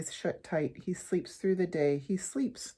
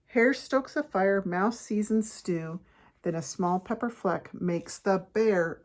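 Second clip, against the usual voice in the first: story narration; 4 dB louder than usual. A narrator's reading. Reads picture book aloud.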